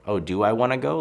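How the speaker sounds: mock wondering to oneself. Imagining an invited friend weighing plans, wondering.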